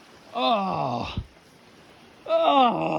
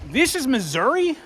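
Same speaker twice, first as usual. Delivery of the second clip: asks it with rising wonder, almost not believing; a stunned question, the pitch rising at the end; disbelieving question; 5 semitones higher than usual. Real, not acted. Hiker at the gorge, in disbelieving wonder.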